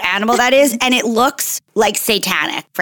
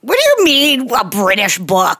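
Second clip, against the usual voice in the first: incredulous. Real, not acted. Co-host balks at British book remark.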